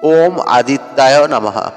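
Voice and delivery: measured mantra with a lengthened Om; deliberate Sanskrit recitation, Om held long. Shown as a demonstration. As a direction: recite each repetition evenly, like a mantra. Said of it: "এই মন্ত্রটি উচ্চারণ করতে".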